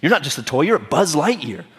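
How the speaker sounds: lightly acted riveting pep talk; Woody. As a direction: push back with mild, rousing disbelief. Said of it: "Woody gives him this riveting speech".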